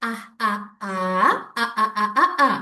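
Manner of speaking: "அ" in short bursts, "ஆ" held; phonics sound drill. Shown as a demonstration. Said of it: "யூ லெட்டர்ல ரெண்டு உச்சரிப்பு".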